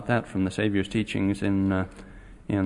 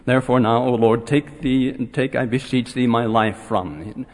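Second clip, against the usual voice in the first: upset complaint. Retold or imitated. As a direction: protest to the Lord like a sulking prophet. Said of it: "He was very angry".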